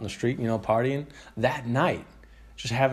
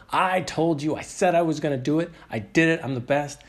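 boastful Ali imitation; 5 semitones higher than usual. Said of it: "Ali is going off and going".

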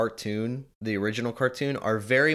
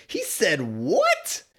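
slow, a touch higher stunned question; mock disbelief; 8 semitones higher, much slower than usual. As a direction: act floored by the line. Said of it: "I was like".

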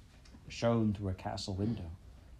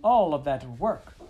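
French mother's lament; 6 semitones higher, 8 dB louder than usual. A narrator's reading. French mother mouse lamenting the dead litter, loud French wail. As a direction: wail over wasted work, French. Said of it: "said the mother".

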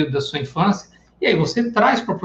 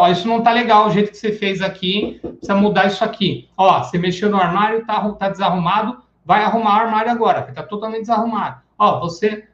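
bossy controller; 3 semitones higher than usual. Retold or imitated. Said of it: "O controlador é aquele que fala".

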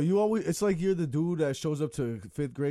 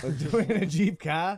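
put-on Boston accent; 2 semitones higher, 3 dB louder, much slower than usual. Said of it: "With a, a Boston accent".

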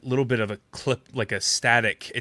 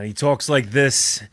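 lightly voiced, slow mob boss; Rat the mob boss; slower than usual. Shown as a demonstration. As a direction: talk slowly, with a hint of gangster. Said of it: "I voice for a mob boss".

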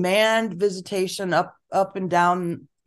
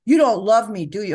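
put-on kid's whine; 3 semitones higher, 5 dB louder than usual. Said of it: "little kids do that".

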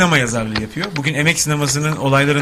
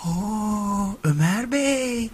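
mock formal greeting; 7 semitones higher, 6 dB quieter, much slower than usual. Mock greeting, slow, high.

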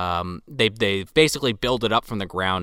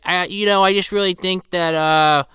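higher, lightly voiced girl; daughter's voice; 5 semitones higher than usual. Daughter confronting her father, lightly imitated higher voice. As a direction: raise it slightly into an imitated daughter's complaint. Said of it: "She's like".

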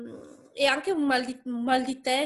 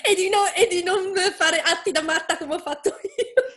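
laughing; 5 semitones higher than usual. Real, not acted. Laughing at herself.

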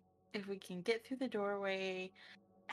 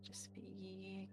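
hushed whisper; 15 dB quieter than usual. Real, not acted. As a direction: whisper the plan. Quiet sneaking plan in dark.

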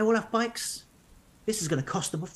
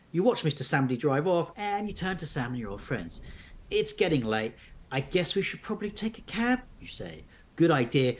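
measured storybook narration; narrating an unfolding mystery tale; story narration. A narrator's reading. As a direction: read the adventure aloud to listeners. Reads the story on.

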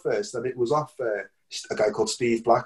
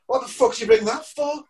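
incredulous; 10 semitones higher, 3 dB louder than usual. Retold or imitated. Drummer baffled by guitar.

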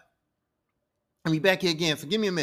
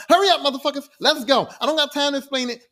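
retold hurry-up yell, loud and higher; urgent shouting; 4 semitones higher, 7 dB louder than usual. Loki rushes his crew through a retold rescue, urgent shouting. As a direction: bark it out to rush everyone along.

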